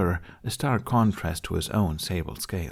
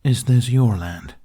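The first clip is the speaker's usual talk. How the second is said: louder, slow and firm question; firm demand; 3 semitones higher, 6 dB louder than usual. A narrator's reading. Toothless confronting the dragoness, slow firm demand. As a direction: press her for an answer.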